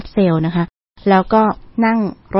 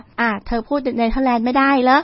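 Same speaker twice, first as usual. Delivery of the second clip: imitated questioning local; 4 semitones higher than usual. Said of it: "แล้วเขาก็ถามว่า".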